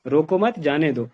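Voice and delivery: "रोको मत" as one phrase, then "जाने दो"; group "रोको मत" together, meaning don't stop them; slow "रोको मत", break, "जाने दो"; pause after मत. Shown as a demonstration. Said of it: "पहली लाइन में ये है".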